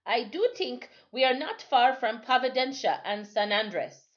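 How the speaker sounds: lightly voiced old sailor; old island sailor. Timothy voiced in story.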